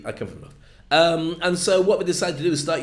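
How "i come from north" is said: Northern English. Acted. Repeats the northern viewer's line.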